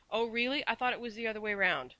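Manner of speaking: mock surprise, dripping scorn; scornful. A narrator's reading. Nanny mocks the girl with a scornful edge. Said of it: "with a scornful laugh".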